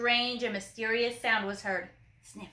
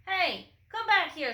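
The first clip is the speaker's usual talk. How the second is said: higher mock shout after fleeing troops; 7 semitones higher than usual. A narrator's reading. Officer calls his fleeing troops back, higher shout. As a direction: call them back, hammed up. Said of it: "shouted the Big Cheese".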